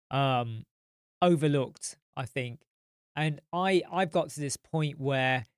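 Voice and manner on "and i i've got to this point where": talking through a yawn; words stretched by a yawn. Real, not acted. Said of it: "I'm really sorry I keep yawning".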